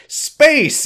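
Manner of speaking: hammed-up gleeful burst; excited unison shout. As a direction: shout it like a team cheer. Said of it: "they literally all say".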